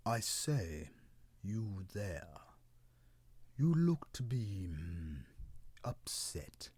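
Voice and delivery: lightly voiced old tree calling up; a hint of an old tree calling out; old cedar calling. Old cedar calls up to crying cloud, mild call. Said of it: "then cried out to the cloud".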